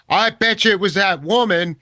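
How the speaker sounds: put-on suspicious line in a Southern accent. Woman doubting his phone story, accusing Southern accent. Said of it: "I'm giving them the Southern accent".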